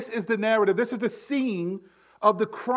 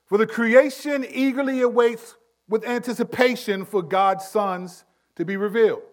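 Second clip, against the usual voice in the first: scripture reading. Shown as a demonstration. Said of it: "here's a straightforward verse nineteen".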